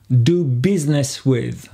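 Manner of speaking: "business" said biz-ness, slowly; silent i in business. Shown as a demonstration. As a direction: model "business" with no middle i. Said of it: "on n'entend pas le I". (« business » prononcé biz-ness, sans le I)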